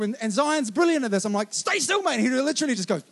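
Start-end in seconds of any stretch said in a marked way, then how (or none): 1.5-2.2 put-on raised, steady command to a child; firm call to son. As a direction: keep him frozen in place with a firm call. Dad instructing son facing dog.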